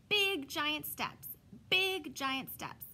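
slow, loud, booming giant steps; big giant voice. Acted. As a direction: stomp it out like a giant. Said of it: "talk in loud giant voices".

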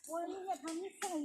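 soft, hushed telling-off, words falling away; hushed scolding. Real, not acted. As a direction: scold under your breath so nothing hears. Same rebuke, now trying to stay quiet.

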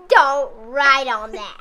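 slow, lightly voiced old granny; a hint of a fussy old grandma. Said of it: "it sounded like an old grandma".

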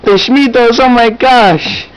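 high, stunned gasp of surprise; amazed. Acted. Brother hears of their ancestors the Smithos, high amazed squeal. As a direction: squeal it in disbelief.

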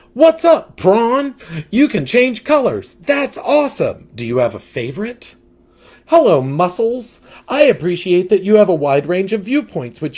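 put-on bubbly young fish greeting friends. Rainbow fish voiced.

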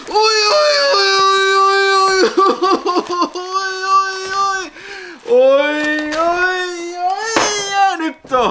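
very high, loud falsetto "oi oi" cries; thrilled squeals. Real, not acted. Seeing the rare tapes, he squeals in high falsetto delight.

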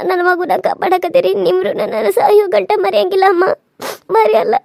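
tearful gratitude. Acted. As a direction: thank her through tears. Girl thanks aunt, crying. (ಕಣ್ಣೀರಿನಿಂದ ಕೃತಜ್ಞತೆ ಹೇಳುತ್ತಾ)

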